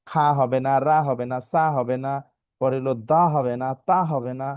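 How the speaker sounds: "খা", "রা", "সা", "দা", "তা" with open aa; wrong aa sounds. Shown as a demonstration. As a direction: list the mistaken "খা", "রা", "সা" with open vowels. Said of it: "আকারের মতো কোনো সাউন্ড আসবে না".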